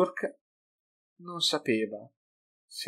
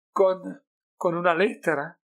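gleeful; 7 semitones higher, 5 dB louder than usual. A narrator's reading. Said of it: "trasportato dal puro piacere del complotto".

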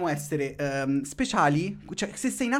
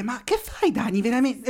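shocked question; 6 semitones higher than usual. Retold or imitated. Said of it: "per sentirti dire".

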